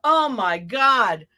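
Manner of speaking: slow, drawn-out awed exclamation; host marvelling at the seal act, slow awe; mock amazement. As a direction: stretch it out in mock wonder. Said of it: "reacting to the seal".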